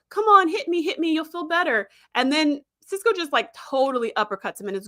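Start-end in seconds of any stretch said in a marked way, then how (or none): 0.1-1.9 egging him on to punch; goading. Retold or imitated. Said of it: "And then he's like".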